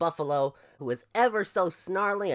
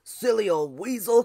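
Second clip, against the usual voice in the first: loud, higher huffy buffalo voice; grumpy buffalo cry; 6 semitones higher, 8 dB louder than usual. Acted. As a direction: scold like a grouchy buffalo. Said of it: "cried Buffalo Fluffalo".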